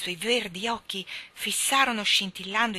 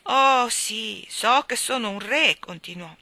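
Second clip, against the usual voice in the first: weeping king; 5 semitones higher, 8 dB louder than usual. Acted. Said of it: "disse piangendo".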